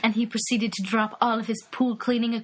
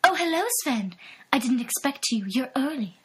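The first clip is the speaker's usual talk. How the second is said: breathy seductress voice; 3 semitones higher than usual.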